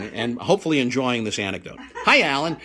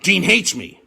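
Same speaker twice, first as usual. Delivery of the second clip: rising loud mock wail; hammed-up heartbroken Jerry; mock despairing cry; 6 semitones higher, 8 dB louder, much slower than usual. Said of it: "the second time was like".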